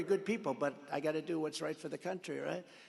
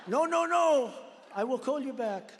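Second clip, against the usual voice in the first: mock panicked protest; 7 semitones higher, 7 dB louder than usual. Macron panicking on the phone.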